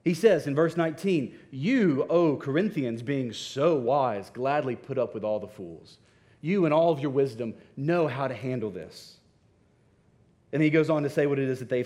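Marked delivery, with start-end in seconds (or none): 1.5-9.2 mock praise for supposedly wise listeners; pointed irony, weighting each phrase; sarcastic. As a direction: voice Paul's cutting sarcasm, lightly acted. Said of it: "Paul cuts to the heart with sarcasm".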